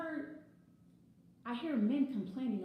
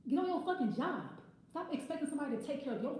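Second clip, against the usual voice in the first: angry; 4 semitones higher than usual. Real, not acted. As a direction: bark it at lazy men. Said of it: "This is sounding kind of angry".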